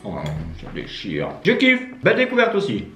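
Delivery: speaking between bites of snack; chewing while talking. Real, not acted. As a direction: mouth partly full of chocolate. Seen 2: Eats chocolate balls from bag, hand to mouth, chewing while talking.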